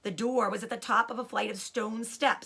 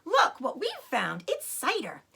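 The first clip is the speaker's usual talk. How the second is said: excited cry; 5 semitones higher, 4 dB louder than usual. Acted. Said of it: "he cried out".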